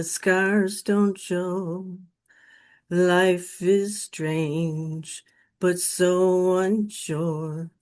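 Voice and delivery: slow, drawn-out recital of a lyric; solemn slow spoken verse; reciting song lyrics. Retold or imitated. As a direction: lay each line out slowly like a remembered song. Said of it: "the words that spoke to my broken spirit were these".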